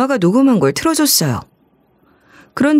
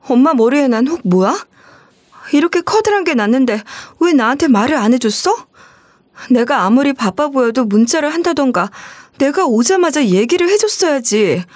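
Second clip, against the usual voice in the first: mild flare of anger; 4 semitones higher than usual. Acted. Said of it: "욱해서 말을 와다다 쏟아냈거든요".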